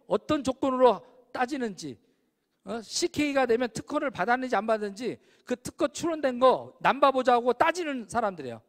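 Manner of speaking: normal talking voice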